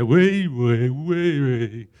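voicing the trees going way, way; mock swaying-tree whoosh. Trees swaying at him in the dark, eerie mock whoosh. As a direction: stretch each way like wind in the trees. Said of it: "Træerne gjorde sådan her".

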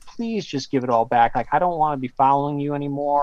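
mildly pleading, retold. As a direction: imitate a reluctant man's mild plea. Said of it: "more like a pleading tone".

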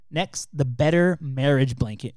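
slow, drawn-out product announcer; commercial voice. Shown as a demonstration. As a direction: sell it like a TV ad. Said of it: "my voice changes when I read the caption".

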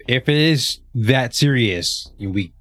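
consoling. Acted. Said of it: "the consoling voice".

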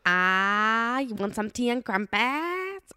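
slow, high mock Asian-sounding accent; a British try that turns Asian; accidental Asian accent. Sister botching her British accent, slow mock Asian voice. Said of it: "why did I go Asian".

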